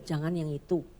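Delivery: low, soft, firm no; a quiet forbidding voice from above; stern God voice. Retold or imitated. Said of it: "Tuhan bilang". (suara Tuhan rendah dan tegas)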